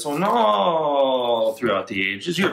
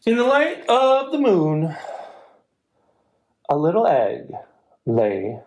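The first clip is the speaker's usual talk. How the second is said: gentle storybook narration; reading to children. A narrator's reading. Librarian reading a picture book aloud, gentle storytelling.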